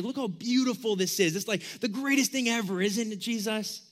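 playful imitation of gushing admirers; mock-awed boasting; bragging. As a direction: brag about it, lightly acted. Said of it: "they were just bragging".

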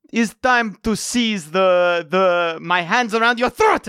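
lightly put-on British accent. Fighter's mental threat said aloud by accident, light British accent. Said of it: "dialogue goes on in a British accent".

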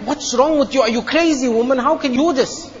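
high, shocked mock protest; husband's alarmed cry at the wife; shocked outburst. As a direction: shout in disbelief at the wife. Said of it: "And I'm like".

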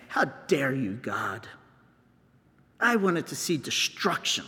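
mock angry rant at God, ending in a hiss; petulant complaint, trailing to a whisper; angry Jonah. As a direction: act out a sulking prophet's rant. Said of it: "And so Jonah goes like this".

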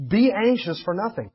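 BE ANXIOUS FOR NOTHING as a firm, deliberate command; emphatic command. Acted. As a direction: make listeners sit up at "Be anxious for nothing". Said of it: "He wants us to snap to, sit up, and listen".

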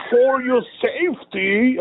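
high, slow stern German order; hammed-up German accent, drawn out; mock German accent. Friend repeats the comedian's line in a mock German accent. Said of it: "He's like".

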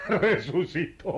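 scoffing laugh through the word; laughing disbelief. Acted. Mocking the resurrection, laughing in disbelief. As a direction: laugh it off as nonsense.

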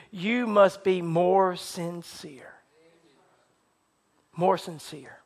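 slow, low, softened voice; solemn command. Retold or imitated. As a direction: let each word sink in, hushed and grave.

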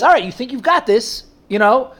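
a relaxed, indulgent divine reply; God answering. Retold or imitated. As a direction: answer the lazy prayer with easy amusement. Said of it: "Then God responds like that".

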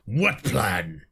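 hushed alien soldier question; whispered elite. Acted. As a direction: breathe it like a suspicious alien. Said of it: "For elite voices".

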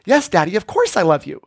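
put-on a touch of eager little-girl emphasis; emphatically. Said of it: "She emphatically answers".

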